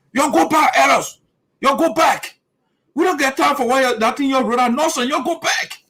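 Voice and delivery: mock him shooing the elders away; imitating Slabby. Repeating Slabby ordering the elders back, mocking. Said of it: "Slabby talking, I just repeating what he said".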